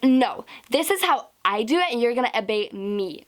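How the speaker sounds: mildly imperious retold scolding; mock bossy royalty, lightly done; imperious coach. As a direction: imitate a coach laying down the law. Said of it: "in that tone".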